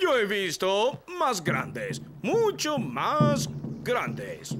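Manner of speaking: slow boast. Acted. Captain boasts slowly.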